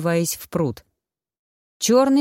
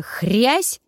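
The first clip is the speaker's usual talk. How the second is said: drawn-out crack, pitched up; loud crunch; 5 semitones higher than usual. A narrator's reading. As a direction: voice the crunch as a rising exclamation. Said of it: "Раздалось громкое".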